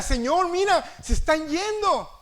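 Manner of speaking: a mildly scared disciple tugging at Jesus; frightened Peter. A narrator's reading. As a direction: cry out in alarm to the Lord. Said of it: "todo asustado".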